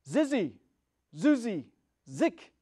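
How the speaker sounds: loud, high witch's summoning cry. A narrator's reading. Wicked witch crying the final charm to summon monkeys, loud. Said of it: "cried in a loud voice".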